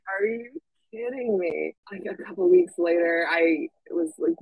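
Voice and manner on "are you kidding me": slow, higher-pitched mock disbelief; understated, drawn-out exasperation; retold incredulity. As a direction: draw out each word, incredulous. Retold reaction to coworker's confession.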